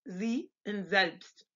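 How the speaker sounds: Z and selbst slowly, both begun with a buzzed 'z'; German voiced S. Shown as a demonstration. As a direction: say Z as 'zee', selbst as 'zelpst'. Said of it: "like the Z in zoo".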